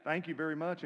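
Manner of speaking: loud, high mock thank you; sarcastic thanks, loud and high. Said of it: "You're like".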